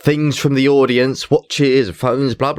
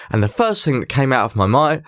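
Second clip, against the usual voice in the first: ordinary delivery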